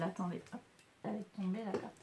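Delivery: real under-the-breath aside; muttering to herself. Real, not acted. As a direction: mumble it privately while picking up a card. Fumbling for a fallen card.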